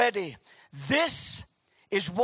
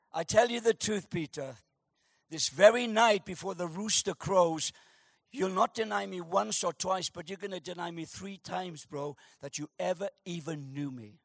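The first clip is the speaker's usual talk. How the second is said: tongue in cheek; 4 semitones lower, 5 dB quieter than usual. Acted. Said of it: "looks at him tongue in cheek".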